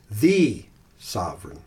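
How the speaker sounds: "The" leaned on, slow; stress on The. Shown as a demonstration. Pastor demonstrating emphasis on the first word. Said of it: "I'm gonna emphasize".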